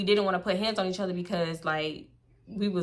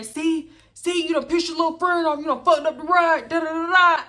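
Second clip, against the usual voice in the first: higher, whiny teasing voice; Dante's mocking voice; 7 semitones higher, 3 dB louder than usual. Man teasing the driver about her angry friend, whiny and high. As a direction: needle her like a whining friend. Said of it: "Dante over there".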